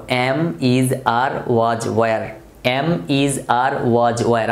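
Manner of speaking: word-by-word verb chant; memorisation drill. Shown as a demonstration. Teacher has students memorise along, steady word-by-word drill. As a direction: repeat the list evenly for learners to memorise. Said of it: "আমার সাথে মুখস্থ করে ফেলতে পারো".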